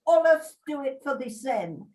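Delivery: broad Yorkshire punchline; Yorkshire accent. Pretend. Finishing the Yorkshire Tykes motto for laughs, Yorkshire accent. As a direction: land the motto's last line in Yorkshire dialect. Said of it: "in my best Yorkshire accent".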